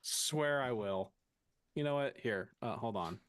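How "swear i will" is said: drawn out, slow warning; slowly, playfully threatening; slow mock threat. Real, not acted. Repeats the timeout threat.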